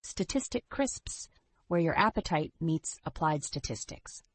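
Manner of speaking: upbeat retro commercial read; chipper 1950s ad. Acted. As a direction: sell it like an old TV ad. Ad tagline and disclaimer.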